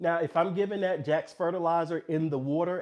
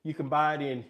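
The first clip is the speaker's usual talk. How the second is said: breathless after the stairs; winded, catching breath. Real, not acted. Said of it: "Sorry, I'm out of breath".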